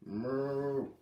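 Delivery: a mild, drawn-out cow bellow; angry moo. Acted. Cow bellowing at the kids, lightly mock-angry moo. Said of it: "and bellowed angrily".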